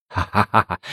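a lightly voiced hearty ha-ha; narrator's mild put-on laugh. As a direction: laugh it off broadly. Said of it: "费庆奇哈哈一笑".

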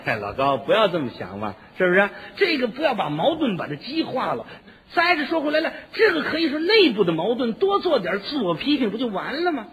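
a hint of a patient old cadre; lightly voiced old chairman. Union chairman voiced persuading.

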